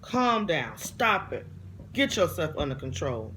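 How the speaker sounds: a clear voice that won't be argued with; lightly voiced stern command; God's firm voice. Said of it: "I hear this voice clear as day".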